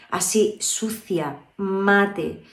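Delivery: slow, rough and husky; hoarse voice demo. Shown as a demonstration. Voice coach showing students a hoarse voice, slow and rough. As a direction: let the voice go dirty and hoarse, slowly. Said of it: "cuando la voz está".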